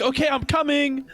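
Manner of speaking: mocking yell. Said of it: "Can I just yell back".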